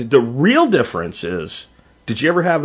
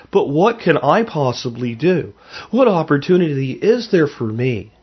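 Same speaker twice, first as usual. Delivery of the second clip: mildly mocking, put-upon questioning; passive-aggressive self-pity; 3 semitones higher than usual. Host voicing a listener's excuses, mild passive-aggressive self-pity. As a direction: lift it slightly into a helpless whine of excuses. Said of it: "being passive aggressive against yourself".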